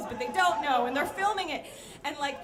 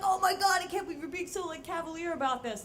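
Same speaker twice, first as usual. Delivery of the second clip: higher-pitched gushing disbelief; mock amazement; 4 semitones higher than usual. Coworkers reacting to the narrator's cavalier attitude, mock amazement.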